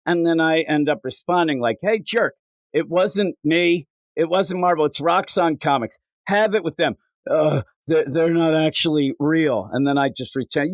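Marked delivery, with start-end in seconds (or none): 1.8-9.7 snappy comeback. Retold or imitated. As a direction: talk down to the heckler, mock indignant. PR agent snapping back.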